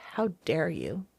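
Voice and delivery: whispered retold challenge; quoting the boss in a whisper; hushed whisper. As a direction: hush it like a stern secret. Boss confronting her, retold.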